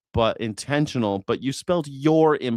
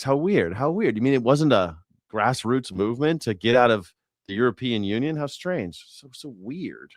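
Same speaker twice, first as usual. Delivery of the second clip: sarcastic. Real, not acted. Streamer mocking the news that Brexit money came from oligarchs, sarcastic. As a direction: feign shock, dripping irony.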